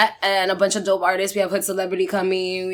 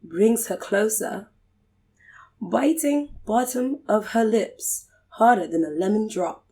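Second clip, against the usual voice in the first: poetry reading; 3 dB quieter than usual. Pretend. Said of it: "Do it in the British accent".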